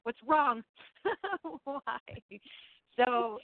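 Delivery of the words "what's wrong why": higher, fretful voice with laughs; flustered and hurt. Retold or imitated. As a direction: play it as an anxious, baffled spirit. Acting out a spirit's hurt reaction.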